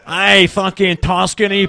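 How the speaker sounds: slow, drawn-out mock Glasgow accent; mock Glaswegian. Comedian mocking the Italian from Glasgow, mock Glaswegian accent. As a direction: drawl it like a Glaswegian. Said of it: "The Glasgow part of Tuscany".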